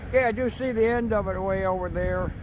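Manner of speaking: speaking up over the rumble of a train. Real, not acted. Filming a loud passing train.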